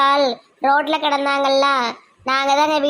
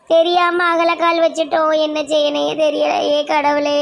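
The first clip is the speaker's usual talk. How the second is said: helpless wail ending in sobs; acted tearful lament; crying in despair. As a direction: plead to God through staged tears. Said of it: "சரி, சரி, அழாத".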